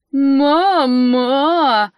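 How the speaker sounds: odd, loud creature wail; crazed bird's protesting cry; wild protesting cry. Acted. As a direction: howl it like a drunk bird. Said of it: "дурным голосом запротестовал Страус".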